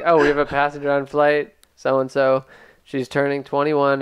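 loud announcement voice; flight attendant announcement. Retold or imitated. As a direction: announce it over the plane intercom. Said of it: "She just said".

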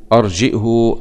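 أرجئه with hamza and a lengthened "huu"; hu with sila. Shown as a demonstration. Teacher repeating the first reading, أرجئه ending in long "huu". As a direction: draw out the final damma of أرجئه. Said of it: "بضم الهاء والهمز مع الصلة".

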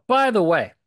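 loud, high sudden interjection; excited by the way; sudden aside. Real, not acted. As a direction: blurt it out as a thought hits.

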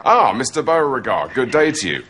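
dialogue recited, not acted; reading off autocue. Mocking the script-reading idea, autocue recital. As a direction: read the line straight off the script. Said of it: "reading the scripts to camera on auto cue".

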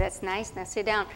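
a busy grown-up waving her off; dismissive teacher. Retold or imitated. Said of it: "She said".

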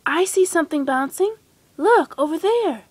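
mild storybook shout of discovery; excited shout. A narrator's reading. Piglet spots something bouncing and calls his friends, excited shout. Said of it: "Piglet shouted".

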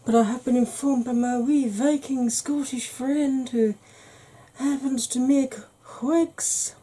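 half-hearted Scottish accent put on; bad Scottish accent. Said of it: "that was the worst Scottish accent ever".

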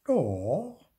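high, rising contradiction; piping, insistent comeback; Zipfel. A narrator's reading. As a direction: contradict in a little ghost voice. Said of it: "sagte auch Zipfel".

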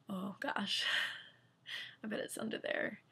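hushed whisper with a little laugh; breathless giggling whisper; excited whisper. Retold or imitated. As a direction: whisper it like a secret discovery. Realizing scores are in tab.

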